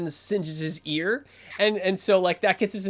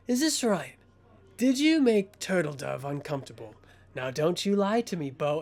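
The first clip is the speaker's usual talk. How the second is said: menacing interrogator. Acted.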